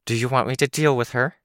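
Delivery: words whistling through teeth. A narrator's reading. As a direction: hiss air through the teeth on each word. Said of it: "her words whistling through her teeth".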